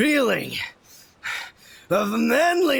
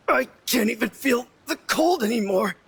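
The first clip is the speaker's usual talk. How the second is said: crying out; faster than usual. Acted. Freezing brother breaks down.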